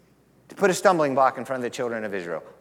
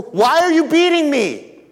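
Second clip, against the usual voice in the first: high, loud strained donkey voice; talking donkey; 11 semitones higher, 7 dB louder than usual. A narrator's reading. Donkey crying out to the prophet beating it, high and loud. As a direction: squeal it out as the beaten donkey.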